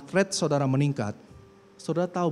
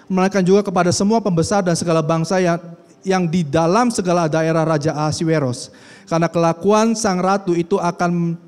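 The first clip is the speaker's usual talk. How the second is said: louder, declaiming Bible reading; booming preacher reading; loud scripture reading; 4 semitones higher, 8 dB louder than usual. Acted. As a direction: proclaim the passage to the congregation. Reads scripture passage aloud.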